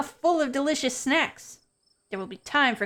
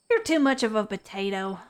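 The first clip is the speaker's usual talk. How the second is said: put-on southern accent. Stella fussing over her pug's harness, southern accent. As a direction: say it in a southern accent, stumbling on "potatoes". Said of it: "the southern accent is, like, conflicting with potatoes".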